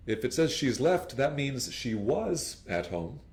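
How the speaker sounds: ordinary delivery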